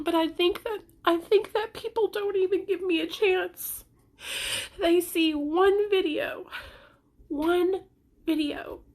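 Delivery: tearful, wounded protest; crying. Real, not acted. Mother feeling judged on one video, crying. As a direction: protest through real tears. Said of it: "The reason why I'm crying".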